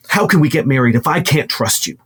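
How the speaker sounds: quick, mildly upset quarrel; hurried, lightly acted reproach; bickering. Woman arguing with her partner in their home, mildly bickering. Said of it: "they're just yelling, just bickering".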